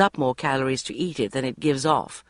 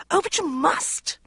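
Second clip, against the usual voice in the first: icy; 13 semitones higher than usual. A narrator's reading. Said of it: "she said icily".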